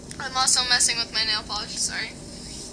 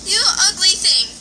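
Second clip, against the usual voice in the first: loud, high calls to the dog; calling to a dog; 6 semitones higher, 6 dB louder than usual. Real, not acted. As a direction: call the dog in from the rain.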